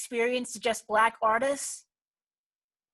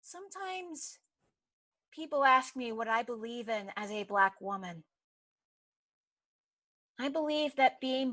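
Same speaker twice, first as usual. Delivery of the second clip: solemn personal creed; 3 semitones lower, 3 dB quieter than usual. Acted. Closing statement of belief after climax.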